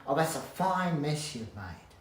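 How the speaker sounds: mock exasperated scolding. Shown as a demonstration. Telling off someone who made a mess, slow and cross. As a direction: drag it out, annoyed, leaning on fine. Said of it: "Instead of saying".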